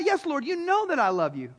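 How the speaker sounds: quick, ready reassurance; insistent. Acted. Peter answering Jesus a second time, insistent. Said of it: "he doubled down on the question".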